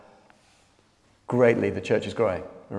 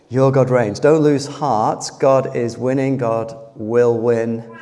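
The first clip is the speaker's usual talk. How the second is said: emphatic preaching; 4 dB louder, slower than usual. Acted. Preaching encouragement with force.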